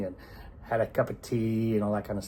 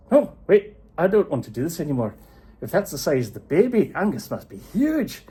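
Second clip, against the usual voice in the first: alarmed giant; 7 semitones higher, 7 dB louder than usual. Acted. Paddy frightened by giant baby.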